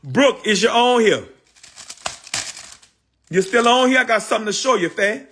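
high excited call to a friend. Real, not acted. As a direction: sing out her name to get her attention. Calling out to viewer Brooke.

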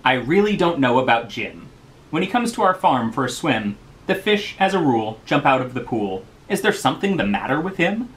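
light comic poetry recitation; poem reading. Acted. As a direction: read aloud with a bouncy limerick lilt, pitch up. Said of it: "And it goes".

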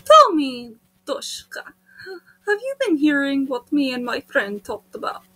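probing Russian voice; Russian accent. Acted. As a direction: question her in a Russian accent. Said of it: "I'm doing the Russian voice".

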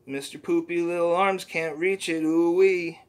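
a hint of the squeaky sidekick, earnest; understated cartoon helper voice; lightly voiced Poopy Butthole. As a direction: plead for help gently. Creature's excuse.

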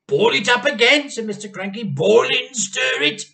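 high, loud command; eager order. A narrator's reading. Mr Cranky directing George, loud eager order. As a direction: urge him on, impatient.

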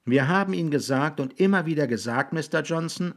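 put-on high, patient boy's voice. A narrator's reading. Raby repeating the answer to William, patiently. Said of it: "sagte Raby geduldig".

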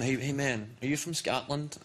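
lightly imitated American guy; a hint of an American accent. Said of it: "an American guy".

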